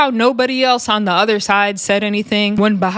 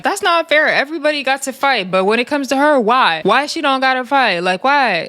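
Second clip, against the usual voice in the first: mock indignant, pitched higher; imitating a whiny complaint; 4 semitones higher than usual. Rella G complaining that she can't fight, high mock whine. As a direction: whine it like it's unfair.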